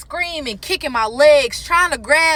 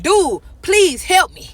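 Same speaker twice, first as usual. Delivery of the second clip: pleading; 5 semitones higher, 3 dB louder, slower than usual. Retold or imitated. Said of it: "So I'm pleading for help".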